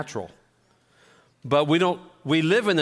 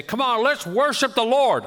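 hyped pastor; 9 semitones higher, 5 dB louder than usual. Retold or imitated. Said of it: "the pastor would come up and he'd say".

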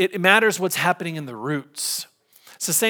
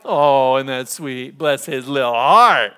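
cooing grandma; 7 dB louder, slower than usual. Retold or imitated. Sweet grandmotherly remark.

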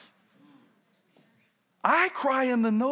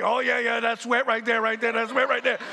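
playing it off. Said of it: "trying to play it off like".

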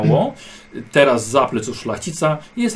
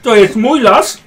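haughty claim; 5 semitones higher, 6 dB louder than usual. Acted. Noble asserts his claim.

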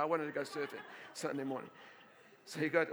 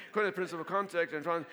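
faster, louder retake; 6 dB louder, faster than usual. Shown as a demonstration. Pastor retaking his laying-on-of-hands formula, quicker and louder. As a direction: rattle off According faster and louder. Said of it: "I can't say, I can say".

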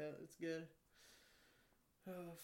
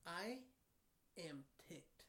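quiet, drawn-out seething with pauses; mock a customer's slow, contained anger; imitated ticked-off customer; 7 dB quieter, much slower than usual. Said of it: "she just looked at me, she's like".

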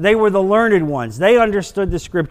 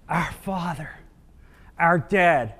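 tender address; 5 dB quieter than usual. Acted. Tender prayer words quoted.

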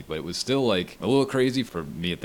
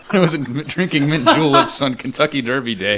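laughing, lightly posh, higher and louder; mock posh voice; 8 semitones higher, 9 dB louder than usual. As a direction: play up a snooty rich kid. Mocking rich prep childhood.

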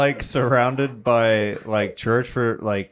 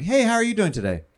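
put-on lightly done Russian accent, bright greeting; a chirpy Russian hello; mock Russian accent, cheerful question; 6 semitones higher, faster than usual. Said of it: "it's layered in the accent".

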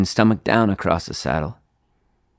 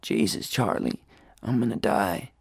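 panic; 7 dB quieter than usual. A narrator's reading. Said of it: "his voice suddenly filled with panic".

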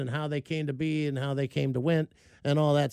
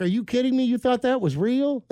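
imitating wife's disbelief; 9 semitones higher, 4 dB louder than usual. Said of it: "And she's like".

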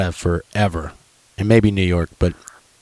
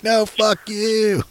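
mock scream back; 13 semitones higher, 4 dB quieter, much slower than usual. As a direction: imitate a rival heckler shouting back in a high, stretched voice. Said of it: "screaming at the other people".

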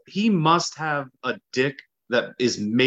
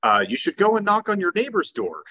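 lightly put-on advice-giver's voice; Wesley; 2 semitones higher than usual. Wesley advising a husband to use neighbors, lightly imitated. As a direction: give earnest bad advice in a slight impression. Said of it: "this is my best Wesley voice".

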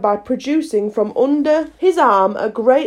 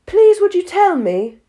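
timid; 9 semitones higher, 4 dB louder than usual. A narrator's reading. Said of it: "a little timidly".

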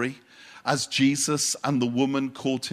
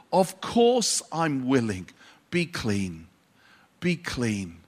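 tender; 4 semitones lower than usual. Retold or imitated. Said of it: "it has to have been something like this".

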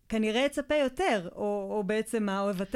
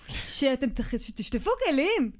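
mother's tearful complaint; 2 semitones higher than usual. Retold or imitated. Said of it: "ואומרת".

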